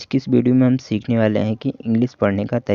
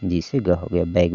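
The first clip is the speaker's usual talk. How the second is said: slow sounding out; slower than usual. Shown as a demonstration. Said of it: "देखिए यहाँ पर".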